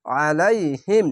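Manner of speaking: আলাইহিম read slowly with a thick throat-squeezed ain; careful tajweed recitation; heavy throaty ain. Shown as a demonstration. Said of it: "আইনটিকে মোটা করে গলায় চিপে পড়বেন".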